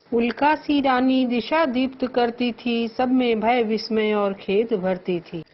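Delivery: measured, lifted verse recitation; poem recital. Shown as a demonstration. Teacher reciting verse to the class. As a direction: recite the couplet with feeling.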